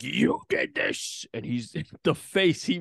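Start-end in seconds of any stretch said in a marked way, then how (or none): 0.0-1.2 accusing Wendy. Retold or imitated. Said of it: "And she's like".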